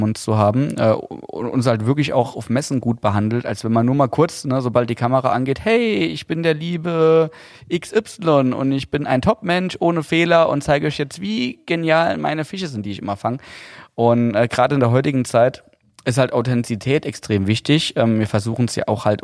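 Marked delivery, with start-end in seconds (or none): 5.6-13.4 mock YouTuber voice. Mocking a YouTuber on camera.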